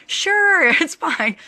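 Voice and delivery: casual easygoing. Retold or imitated. Star casually agreeing with laugh.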